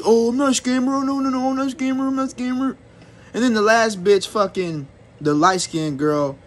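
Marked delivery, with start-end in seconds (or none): 0.0-2.8 higher, sing-song fake innocence; lightly voiced scammer, denying it over and over; mock scammer denial. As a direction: mimic a guilty liar playing innocent.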